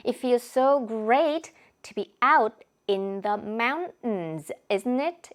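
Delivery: "It feels so great to be out in the mountains" said very slowly, "in the" blurred into a nasal hum; drawn-out slow model reading of "out in the mountains" with nasal links; nasal linking demo. Shown as a demonstration. Teacher slowly modeling the nasal linking for students. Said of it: "코 먹는 소리가 한 두 번 났다".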